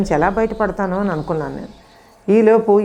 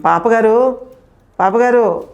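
mock call across the fields; 2 semitones higher than usual. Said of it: "అని అరుస్తూ తిరుగుతున్న పాలేరు". (పొలంలో పిలుస్తున్న పాలేరు గొంతు)

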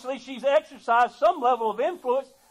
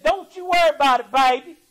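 coaxing temptress; 3 semitones higher, faster than usual. Retold or imitated. Jezebel sweet-talking King Ahab, a coaxing temptress. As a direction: sweet-talk him like a scheming wife. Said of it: "And she said".

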